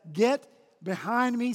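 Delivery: slow, loud command; firm, weighty rebuke. Retold or imitated. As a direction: order him away with authority. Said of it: "with the same commanding voice".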